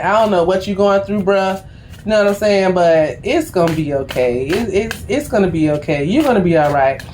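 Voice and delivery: 1 reassuring. Retold or imitated. Comforting the grumpy clerk.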